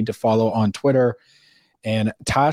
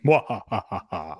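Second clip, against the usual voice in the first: evil villain laugh; 2 semitones lower, 3 dB quieter than usual. Acted. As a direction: cackle like a mustache twirling villain. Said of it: "my evil villain laugh".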